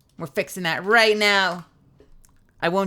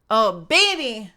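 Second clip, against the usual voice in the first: hammed-up sultry; 5 semitones higher, 6 dB louder, slower than usual. Teasing the chat over mayonnaise, hammed-up sultry moan. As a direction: stretch it out as an over-the-top sexy moan. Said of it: "How can you make that sound so good".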